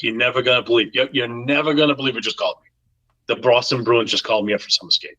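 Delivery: quick imitation of an excited Boston caller; best Boston accent. Goalie phoning about the Bruins call-up, imitated Boston accent. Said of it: "I'm doing my best Boston accent".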